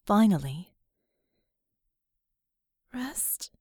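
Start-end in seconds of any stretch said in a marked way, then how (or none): 2.9-3.5 soft, breathy whispered plea. Acted. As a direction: whisper the single word. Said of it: "she whispered".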